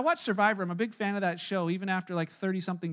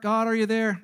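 hammed-up seeker; mock pleading seeker; 6 dB louder than usual. Preacher mocking a Walmart shopper calling to God, louder. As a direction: call out to God, a bit louder.

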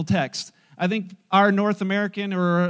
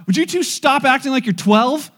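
higher, loud mock scolding; scolding wife; 6 semitones higher, 8 dB louder than usual. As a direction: tell off two squabbling men as an exasperated wife. Wife scolds two squabbling men.

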